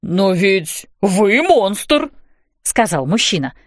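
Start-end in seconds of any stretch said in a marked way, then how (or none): 0.0-2.1 frightened. A narrator's reading. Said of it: "Вид у него был до того испуганный".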